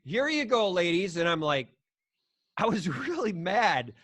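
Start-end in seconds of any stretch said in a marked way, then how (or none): 0.0-1.2 pitched-up, lightly mocking waiter. Retelling the waiter greeting him and wife. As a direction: imitate the waiter's cheery greeting. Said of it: "he's like".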